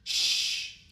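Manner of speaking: whispered shh to settle the patient; a breathy hush, gentle and low; soft hush. Acted. Calming patient after surgery.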